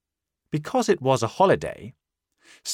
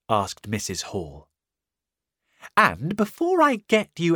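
high, pressing woman's voice, building louder; interrogating landlady; 6 semitones higher, 3 dB louder than usual. Acted. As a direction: fire questions higher and louder.

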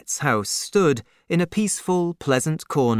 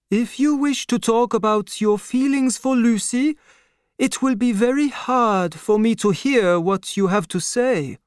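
put-on higher, strained old father dreading the news; old doctor's voice, pained; 10 semitones higher than usual. A narrator's reading.

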